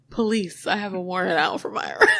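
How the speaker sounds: retold line without the yell, breaking into laughter; lightly mocked quote, giggle creeping in; amused repeat. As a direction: repeat the quote at talking level, about to crack up. Repeats the yelled line while amused.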